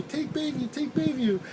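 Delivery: put-on high, slurred drunk woman insisting on Bayview; drunk passenger. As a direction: play the drunk rider pushing her shortcut, pitched high. Drunk passenger giving directions.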